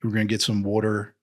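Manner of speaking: Philadelphia vowels with a surfer tinge; surferish Philly accent. Shown as a demonstration. Demonstrating local mall talk, surferish Philly accent. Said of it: "a little surferish sometimes".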